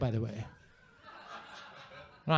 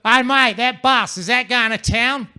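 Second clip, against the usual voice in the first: loud Aussie bloke; 4 semitones higher, 6 dB louder than usual. Retold or imitated. Imagined bloke asking about bus.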